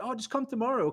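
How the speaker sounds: dismissive staff. Retold or imitated. Airport staff brushing him off.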